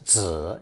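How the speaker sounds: ZI with a full low dip and rise; full third tone. Shown as a demonstration. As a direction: give "zi" its whole third tone, down then up. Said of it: "its full third tone pronunciation".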